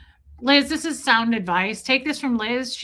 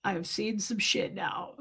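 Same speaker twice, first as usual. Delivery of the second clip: stunned smokers; 3 semitones lower, 9 dB quieter, slower than usual. Retold or imitated. Smokers stunned, deadpan quoted reaction.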